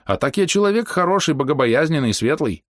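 put-on high, old-fashioned sing-song pleading; folksy storyteller voice. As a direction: spin a folksy excuse. Hero imitates old speech.

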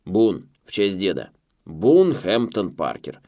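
loud, brash American boss. A narrator's reading. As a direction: bark down the phone line. Boss on the phone.

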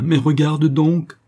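loud, high, stretched-out urging; frantic, inhuman cry. A narrator's reading. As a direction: cry out slowly, beside yourself with shock. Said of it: "d'une voix qui n'avait plus rien d'humain".

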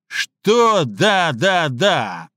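loud mocking yell; Слик roaring down at Филя. A narrator's reading. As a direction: roar down at him. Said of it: "заорал на него сверху Слик".

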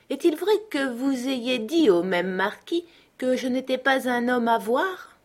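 pin him down word by word; pressing Manxit. A narrator's reading. Manxit cross-examining Fata about his lies, accusing.

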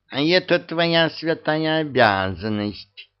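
sharp retort. A narrator's reading. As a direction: cut him off sharply. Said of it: "резко затормозил Васька". (резкий ответ)

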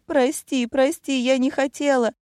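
high, frightened begging; terrified pleading. A narrator's reading. Scared friend begs the returned heroine not to hurt her, high and panicky.

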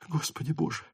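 soft, hushed plea to God; whispered prayer. A narrator's reading. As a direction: pray under the breath. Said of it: "прошептал про себя Ростов".

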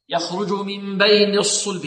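الصلب rounded only on the second saad; slow recital, keep the first saad of الصلب unrounded; correct lip timing. Shown as a demonstration. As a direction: round lips late, on the u of الصلب. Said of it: "لا نقول".

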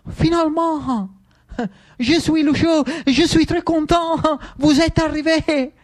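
hammed-up French welcome; a delighted local faking French; mock French. Lucio greets the French general.

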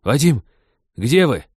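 calling out. A narrator's reading. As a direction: call out searching for him. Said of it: "громко окликнул капитан".

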